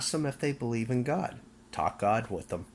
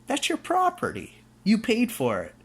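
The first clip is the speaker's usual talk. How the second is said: outraged yell; 13 semitones higher, 5 dB louder than usual. Real, not acted. Viewer's paid-for car, yelled in indignation. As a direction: pitch leaps way up, shouted and louder. Ranting about seized cars.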